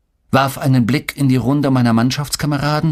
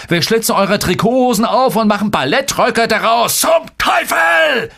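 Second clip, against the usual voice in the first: higher-pitched tirade building to a shouted curse; spitting scornful rant; 6 semitones higher than usual. A narrator's reading. Coach berating his losing team, mounting scornful rant. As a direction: heap on sarcasm, climbing to an outburst. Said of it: "Spuckte er aus".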